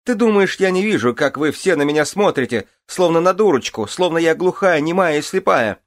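very high, loud screeching tirade; hysterical shrieking. Acted.

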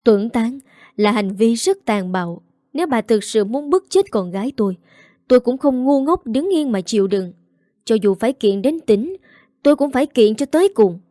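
building to a loud, fast threat; rising fury ending in a shout; angry outcry. Acted. Father threatens the mistress with a lawsuit, building angrily. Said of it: "bất mãn kêu gào".

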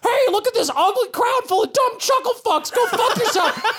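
high squawking heckler insulting the crowd; insulting parrot. Acted. GM voicing parrot Wally heckling the crowd, high squawk. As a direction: roast the audience in a shrill bird voice. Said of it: "And Wally says".

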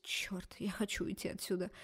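breathy whisper of despair; whispered inner thought. A narrator's reading. Girl muttering her wish to leave, whispered. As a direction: whisper it to yourself.

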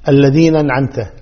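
الذين أنعمت fused as "alladhinan'amta"; slurred joining. Shown as a demonstration. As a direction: drop the break before أنعمت. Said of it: "لا، مو الذين أنعمت". (الذين أنعمت بلا همزة)

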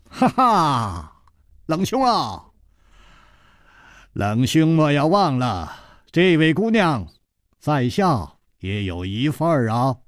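playful, chuckling interruption; gleeful teasing. Acted. Newcomer butting in to claim his share, gleeful. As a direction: laugh first, then tease merrily. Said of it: "嘻嘻地说".

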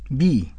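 "بي" with a clear pure i; true kasra. Shown as a demonstration. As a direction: echo "بي" with a fully realised kasra. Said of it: "هذه هي الكسرة المحققة". ("بي" بكسرة محققة)

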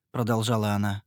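plain reading voice

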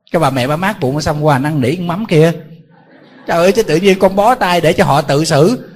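monk loudly scolds an irresponsible son in mock anger; mock scolding.

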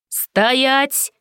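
authoritative shout to halt; commanding shout. A narrator's reading. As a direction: stop the brawl with one bark. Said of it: "прокричал чей-то властный голос".

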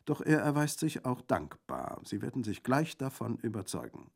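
high, lively bandit voice; hearty bandit. A narrator's reading. Bandit thanking Colomba for his dog, hearty.

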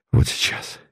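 soft, breathless whisper; whispered dread. A narrator's reading. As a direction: barely voice it in terror. Dread of imminent death.

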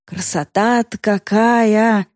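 put-on slow clowning old man voice. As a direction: ham it up like a toothless grandpa. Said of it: "продолжал поясничать я".

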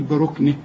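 بركنه ended on a still final h; pausal form. Shown as a demonstration. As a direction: stop on بركنه, dropping its last vowel. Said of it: "إذا وقفت تقول".

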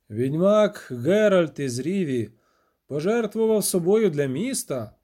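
stately mayoral proclamation; solemn. A narrator's reading. Mayor honouring the witcher's sacrifice, solemn. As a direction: intone it gravely, like a eulogy. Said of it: "урочисто сказав бургомістер".

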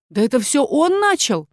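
высоко, поспешно сваливая вину; выпали обвинение, оправдываясь; торопливое оправдание. A narrator's reading. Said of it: "торопливо выдала Олта". (торопливо и возмущённо)

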